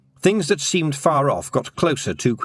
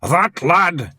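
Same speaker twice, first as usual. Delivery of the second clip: proudly; 6 semitones higher, 4 dB louder than usual. A narrator's reading. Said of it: "he said proudly".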